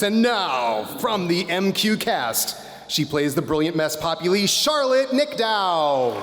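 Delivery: pro wrestler announcer voice. Pretend. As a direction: ring announcer, stretching the name out. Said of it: "I'm loving my pro wrestler announcer voice".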